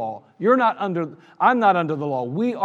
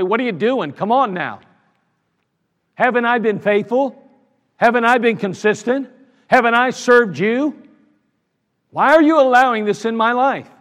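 rising, louder pleading questions to God; pleading complaint; 3 semitones higher, 4 dB louder than usual. Retold or imitated. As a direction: plead with God, aggrieved and pushing.

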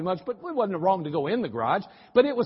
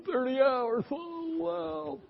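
mock amazement; 8 semitones higher, 5 dB quieter, much slower than usual. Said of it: "mock astonishment at thirty hours".

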